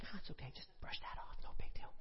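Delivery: unbothered whispered aside; mock casual fire. Fire pretending to ignore what it touches, whispered. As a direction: shrug it off in a whisper. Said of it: "it's like".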